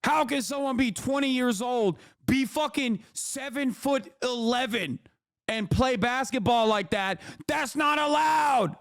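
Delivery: lightly hammed-up outraged whine; mock whining complainer. Streamer imitating complainers about tall basketball players, mock whine. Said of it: "That's what you sound like".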